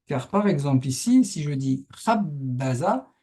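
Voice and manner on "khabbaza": "khabbaza" with a long khab and two short syllables. Shown as a demonstration. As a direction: hold "khab", then quick "ba-za". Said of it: "Donc on entend long, court, court". (« khabbaza » : une longue, deux brèves)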